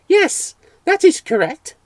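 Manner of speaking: high, loud, each word spelled out; spelling out carefully. Acted. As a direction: speak as if to a fool, word by word. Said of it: "spelling the words out carefully".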